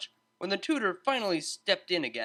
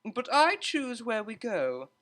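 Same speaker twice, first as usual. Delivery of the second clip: called out; 8 semitones higher, 3 dB louder, slower than usual. A narrator's reading. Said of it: "she called over her shoulder".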